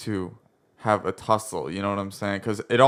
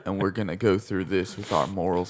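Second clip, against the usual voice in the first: lightly voiced earnest hero; low, quiet noble leader speech; Rick impression; 3 semitones lower, 3 dB quieter than usual. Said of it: "This is Ryan's Rick".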